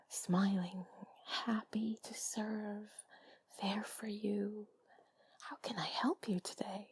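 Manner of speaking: soft intimate ASMR whisper; sultry narrator. Real, not acted. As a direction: breathe the words close to the mic. Whispers steadily to the listener.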